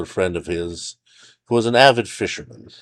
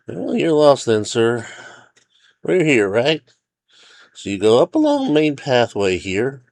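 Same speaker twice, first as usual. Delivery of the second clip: higher, louder ranger voice giving directions; resigned but helpful, pitched up; park ranger character; 4 semitones higher, 3 dB louder than usual. A narrator's reading. Ranger shows hiker the route on a map, helpful.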